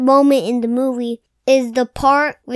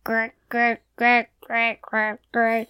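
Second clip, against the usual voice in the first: soft growly duck noise; squeaky rubber duck; 3 semitones lower, 5 dB quieter than usual. Retold or imitated. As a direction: imitate the duck's spooky grr. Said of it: "I'm trying to do what the duck does".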